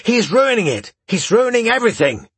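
high-pitched whining outburst; whining tantrum. A narrator's reading. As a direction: shriek like a spoiled duke. Fat duke throws a tantrum.

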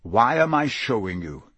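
lightly voiced grizzled auror lecturing; a stern old teacher drilling his class; gruff Moody. Moody warns his students, gruffly.

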